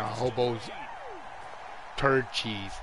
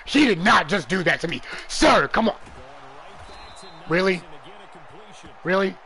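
indignant disbelief; 3 semitones higher than usual. Real, not acted. Reacting to the play.

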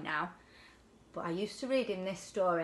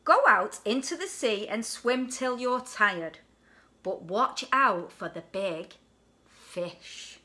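mum's warning; 4 dB louder, slower than usual. Acted. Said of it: "she said".

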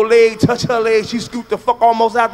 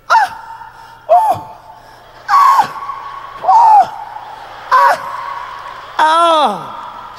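faked female orgasm cries; much slower than usual. Mocking a woman faking orgasm with high squeals. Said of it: "A woman can fake a nut".

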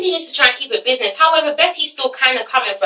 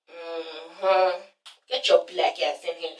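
much lower and softer voice; imitating a hushed, low summons; low, unimpressed; 9 semitones lower, 11 dB quieter, slower than usual. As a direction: grudgingly let him in, low and quiet. Acts woman at the peephole.

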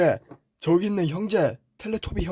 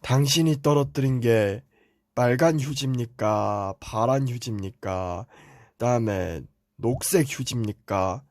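mock mountain spirit; 3 semitones lower than usual. Brother mocks fable mountain spirit.

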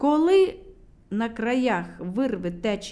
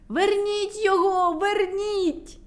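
desperate shout; 9 semitones higher, slower than usual. A narrator's reading. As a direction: call after him in panic. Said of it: "закричала медуниця".

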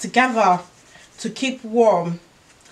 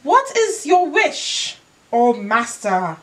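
genie; 2 semitones higher, slower than usual. Acted. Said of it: "asked the genie in a deep, booming voice".

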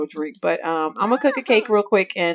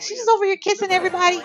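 voicing the jealous Sim; 11 semitones higher, faster than usual. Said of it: "She's like".

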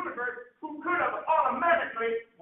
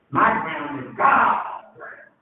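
preaching shout; 8 semitones lower, 5 dB louder, much slower than usual. Real, not acted. Preacher declaring with force.

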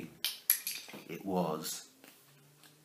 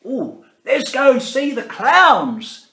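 a hint of a cheery grandpa, a bit louder; lightly voiced grandpa; 9 semitones higher, 8 dB louder than usual. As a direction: suggest it like a jolly old man. Grandpa urges Alfie.

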